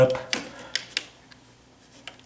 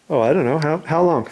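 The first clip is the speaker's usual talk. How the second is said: ordinary talk, nothing marked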